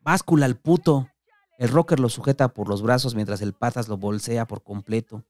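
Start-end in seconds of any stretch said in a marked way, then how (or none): 0.0-1.1 mock shout. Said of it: "se ríe y grita".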